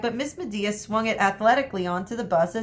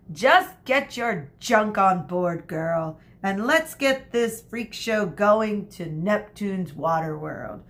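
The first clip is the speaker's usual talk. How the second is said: slow stern command; slower than usual. Acted. Teacher ordering girl aboard.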